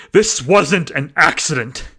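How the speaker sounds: steady yourself, dark realization; grim suspicion. A narrator's reading. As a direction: agent telling dispatch it was no accident. Agent calming, suspicious.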